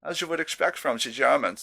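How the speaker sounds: jokey bad German accent on a beer review; mock German accent. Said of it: "Sorry, terrible accent again".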